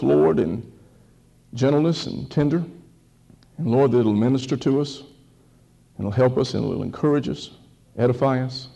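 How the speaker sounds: unhurried prayer in short, paused phrases; reverent, measured petition to God; public prayer. Real, not acted. Leads opening prayer.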